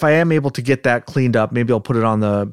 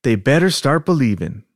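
put-on Southern accent; 3 semitones higher than usual. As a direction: read it as a worked-up Southern man. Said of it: "practice with our Southern accents".

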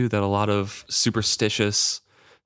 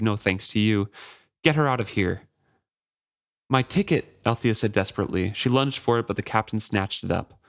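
reading a novel aloud with lightly voiced characters; story reading. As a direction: read the passage like an audiobook, voicing the captain a little. Reads a novel passage aloud.

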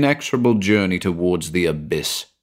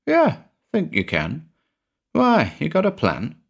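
lightly raised voice for John; a touch higher, lively; Eckersley's voice; 9 semitones higher than usual. A narrator's reading.

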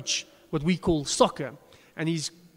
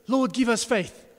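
exasperated plea; 5 semitones higher, 4 dB louder than usual. Retold or imitated. Disciples' exclamation repeated.

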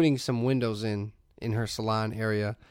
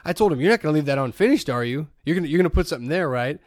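fast, a bit louder, bossy retelling; wife's reenactment; 2 semitones higher, 5 dB louder, faster than usual. Retold or imitated. Wife reenacting her talk with the contractor, mildly bossy. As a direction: lightly mimic a wife acting tough. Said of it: "she was reenacting it to me".

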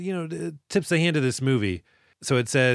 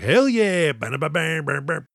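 excited cheer; 3 semitones higher than usual. Pretend. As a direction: pretend hyped-up cheer with sung-out bams. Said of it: "I would have been like".

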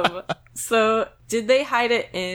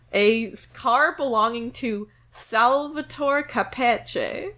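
laughing read; 2 semitones higher, slower than usual. Real, not acted. Reads Italian name laughing.

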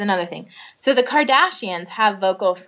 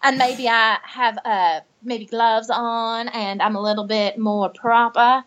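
Southern belle accent. Shown as a demonstration. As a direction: play a proper Southern belle with a Southern accent, unhurried. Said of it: "barely recognize your voice in there".

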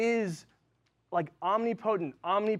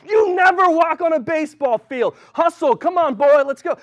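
much louder, higher furious yell; coach screaming; 10 semitones higher, 12 dB louder than usual. Retold or imitated. Coach yelling at a freshman walking on the field, furious. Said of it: "starts screaming at me".

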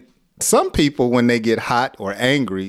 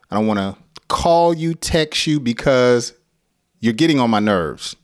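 annoyed complaint. Shown as a demonstration. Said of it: "when people are angry. They say".

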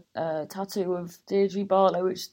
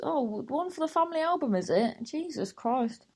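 sarcastic jab; 6 semitones higher than usual. Retold or imitated. Sarcastic jab at dad photographing.

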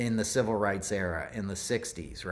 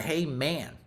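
lightly imitated casual hello, pitched up; cool President Carter; 6 semitones higher than usual. Retelling how President Carter greeted him, cool and casual. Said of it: "he was the coolest guy".

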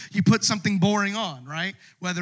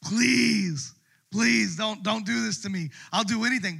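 begging; 6 semitones higher than usual. Acted. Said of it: "begging Esther".

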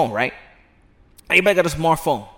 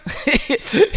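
high cackle in character; high hammed-up cackle; cackling laugh; 10 semitones higher than usual. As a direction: laugh like the old barber. Laugh after the barber quote.

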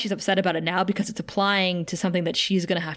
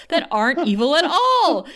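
laughing through it; 6 semitones higher, 4 dB louder than usual. Retold or imitated. Laughing while quoting Buffy to her co-host. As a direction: quote breaks into laughter.

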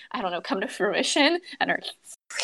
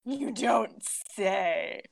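sarcastic; 2 semitones lower, 3 dB quieter, slower than usual. Retold or imitated. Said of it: "And I'm like".

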